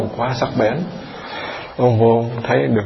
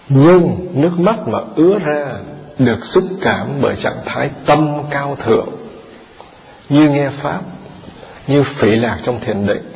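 measured scripture reading; 2 semitones higher than usual. Acted. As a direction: read it out deliberately, drawing out the phrases. Reads second half of answer.

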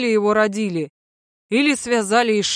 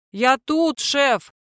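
joyful bark; 5 semitones higher, much slower than usual. Acted. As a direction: yell it out happily. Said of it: "радостно гаркнул".

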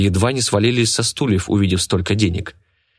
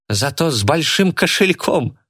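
ordinary delivery, nothing marked

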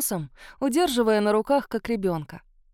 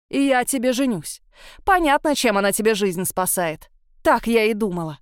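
furious rant; 5 dB louder than usual. Acted. Furious mother scolds son.

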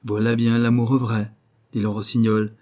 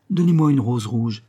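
calling out; 4 dB louder than usual. Acted. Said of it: "cria-t-il".

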